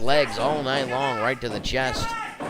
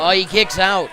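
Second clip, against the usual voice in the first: surprised; 6 semitones higher, 6 dB louder than usual. Real, not acted. Kickout surprises commentator.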